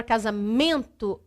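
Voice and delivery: "casamento" with a weighted MEN; stress on MEN. Shown as a demonstration. Teacher demonstrates tonic syllable to students, stressing MEN in "casamento". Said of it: "a sílaba mais forte é men".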